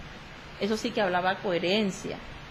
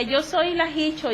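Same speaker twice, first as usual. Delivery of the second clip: higher, slow eerie father's voice; imitating father; 7 semitones higher, slower than usual. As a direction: let it drag out, half spooked. Father voicing wife's figure.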